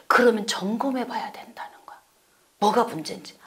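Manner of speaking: soft whispered aside; a confiding whisper to the congregation. Real, not acted. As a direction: lean in and whisper it.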